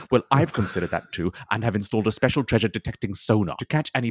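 a hint of a pompous TV explorer presenting; lightly voiced eccentric ocean explorer. Eccentric explorer introduces his podcast segment, lightly pompous. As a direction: play a self-important treasure hunter, lightly. Plays character Edmund Hankering.

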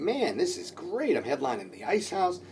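soft, drawn-out pleased musing; inner thought. Retold or imitated. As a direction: think it to yourself, savouring it quietly. Retelling own pleased thoughts.

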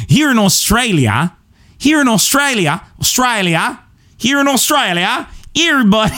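high, failing Aussie attempt; squeaky fake Aussie; Australian accent. Shown as a demonstration. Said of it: "trying to reclaim my Australian accent".

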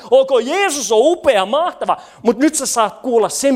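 livelier, lifted praise; energised preacher's acclaim; voice rising with excitement. Shown as a demonstration. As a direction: let the praise ring out keenly. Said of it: "se äänen pitää alkaa nousta".

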